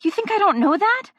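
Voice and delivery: high cracked half-laugh, half-sob; laugh turning to sob. Acted. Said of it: "I try to laugh, but it comes out as a sob".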